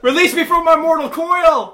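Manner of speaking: high, loud, slow laughing wail; melodramatic agonized wail. Pretend. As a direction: beg for death, hammed-up. Voicing a suffering pug.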